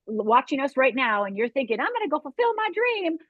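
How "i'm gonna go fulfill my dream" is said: hopeful resolve. Retold or imitated. Voicing a viewer's hopeful resolve.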